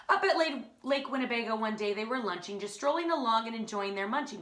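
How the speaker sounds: put-on bouncy rhyming read-aloud for kids; lively Seuss narration; story narration. A narrator's reading. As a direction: read it like a children's picture book.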